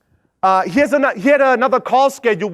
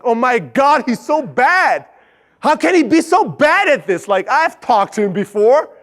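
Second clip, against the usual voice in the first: slow, higher disbelief at how bad he is; incredulous inner voice; 3 semitones higher than usual. Boss silently despairing over the new intern, incredulous. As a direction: wonder how he can be this bad. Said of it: "I'm like".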